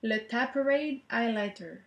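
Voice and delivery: French speaker trying an English name; shy French accent on the English name; English brand name in a French accent. Real, not acted. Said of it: "riez pas de mon accent anglais".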